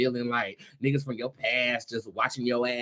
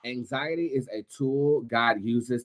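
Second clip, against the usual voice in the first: solemn proverb; 5 dB quieter than usual. Acted. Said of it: "I have another word for you".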